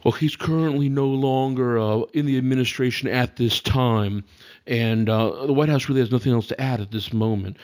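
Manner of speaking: lightly voiced press secretary; a hint of a flat briefing-room voice; Sarah Huckabee Sanders impression. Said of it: "could you do your impression of her".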